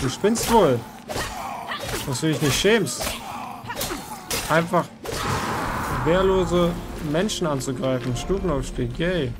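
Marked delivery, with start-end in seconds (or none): 0.0-8.1 indignant scolding. Real, not acted. Scolding an attacking enemy.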